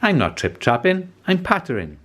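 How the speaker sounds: squeaky mouse. Acted. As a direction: pipe it up like a little mouse. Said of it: "said a furry creature".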